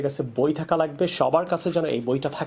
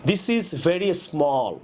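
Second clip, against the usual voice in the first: slow demo of wrong sentence; 3 semitones higher, much slower than usual. Shown as a demonstration. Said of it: "এইভাবে না বলে".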